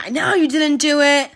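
a hint of a doting mother; mocking the mother. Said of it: "his mother was saying".

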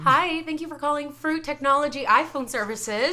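prim and proper phone greeting; lightly put-on polite call-centre agent; customer service voice. Shown as a demonstration. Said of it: "That was Amy's customer service voice".

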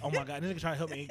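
fast laughing put-on girl voice; mock livestream girl. Imitating the girl going live about the fleeing helper. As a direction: gush quickly on camera.

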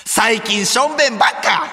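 high, laughing, mock-sad "しょんべんばっか！" with a rising end; mock pitiful exclaim. Teasing partner, reading his message as an apology, high and laughing. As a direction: cry out "しょんべんばっか" like a sorry confession. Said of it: "謝ることばっかみたいに言うな".

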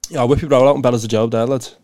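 thick Liverpool slang demo; broad Scouse meant to baffle listeners; heavy Scouse accent. Shown as a demonstration. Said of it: "see if you can translate it".

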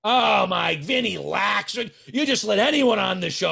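mock exasperation. Mock dismay at a guest.

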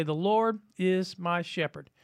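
slow declaration of trust; spoken slowly as a daily confession; slow prayer. Shown as a demonstration. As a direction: let each word land slowly. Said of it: "So you say".

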